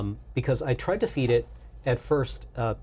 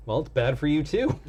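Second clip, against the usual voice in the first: laughing retort; 4 semitones higher than usual. Retold or imitated. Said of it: "pointed out".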